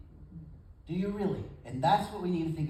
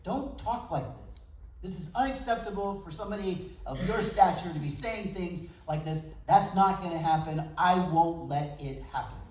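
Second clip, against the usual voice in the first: rebuking. Retold or imitated. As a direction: retell Peter scolding Jesus, building to a firm refusal. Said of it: "he rebukes Jesus".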